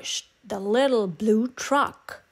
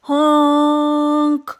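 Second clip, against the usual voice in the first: scared honk; 4 semitones higher, 6 dB louder than usual. A narrator's reading. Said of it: "he sounded scared".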